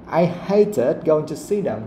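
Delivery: slow line with weight on "hated" and "see"; stress on hated, see. Shown as a demonstration. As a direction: lean on "hated", then on "see". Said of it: "you have to stress those things".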